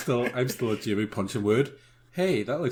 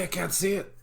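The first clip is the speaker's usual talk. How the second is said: giggling through the words; laughing; 7 semitones higher, 3 dB quieter than usual. Real, not acted. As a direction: laugh it out, high. Laughing while repeating line.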